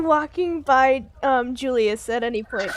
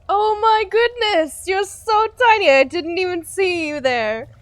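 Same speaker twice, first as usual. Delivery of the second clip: feigned innocence; 4 semitones higher than usual. Acted. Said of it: "tries very hard to feign ignorance".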